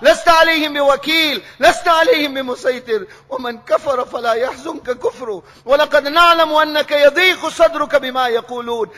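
urgent run of Arabic verses; fluent, pressing scriptural recitation; Quran recitation in sermon. Real, not acted. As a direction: recite verse upon verse in a driving flow.

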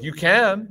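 CAN lifted high and left open; hint at a catch after CAN; trailing implication. Retold or imitated. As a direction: stretch CAN upward like an unfinished sentence. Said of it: "dot, dot, dot".

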